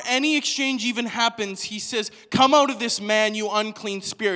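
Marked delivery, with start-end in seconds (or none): 2.3-4.4 loud opening, stern exorcising order; acted authoritative command; firm command. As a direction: order the spirit out forcefully. Jesus commanding a spirit.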